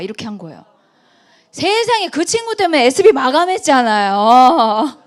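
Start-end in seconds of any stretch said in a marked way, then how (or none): 1.5-5.0 loud amazed exclaim. Real, not acted. Telling audience of her windfall.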